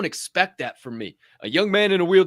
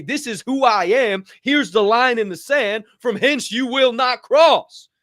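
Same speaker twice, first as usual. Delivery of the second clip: louder, slower bold proclamation, the last line drawn out; proud declaration; 3 semitones higher, 5 dB louder than usual. Pretend. To doubters, drawing his line in the sand with a proud declaration. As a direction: plant your flag and declare who you are. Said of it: "my chin up and say".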